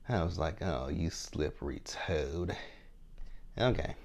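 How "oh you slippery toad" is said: knowing disapproval. Retold or imitated. Retold reaction to his dodge.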